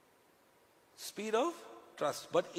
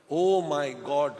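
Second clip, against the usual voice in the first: exaggerated groan; 3 semitones lower, 5 dB louder, much slower than usual. Dread of Delhi winter.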